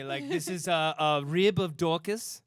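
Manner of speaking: put-on French chef accent; mock French accent. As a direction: present a dish in a hammed-up French accent. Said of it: "sounds like a nice French dish to me".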